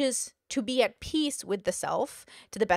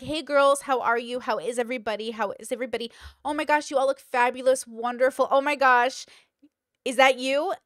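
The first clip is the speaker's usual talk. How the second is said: lightly acted gushing greeting; gushing friend; 3 dB louder than usual. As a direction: play the over-friendly arrival. Acting out Susan greeting the group.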